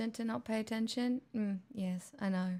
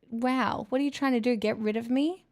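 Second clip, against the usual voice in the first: mock offended; 2 semitones higher, 8 dB louder than usual.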